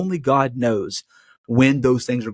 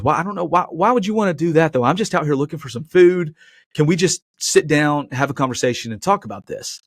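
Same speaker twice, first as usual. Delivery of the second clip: higher pleading bear voice, a bit hammed-up; voiced bear; 4 semitones higher than usual. Pastor voicing the bear begging not to be shot, high and hammed-up. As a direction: play the startled bear begging the hunter.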